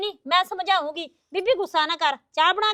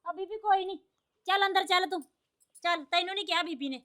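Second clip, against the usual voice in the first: soft voice, defusing a quarrel; hushed placating; 7 dB quieter than usual. Acted. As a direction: coax her away quietly. Hushing a quarrel, steering her inside.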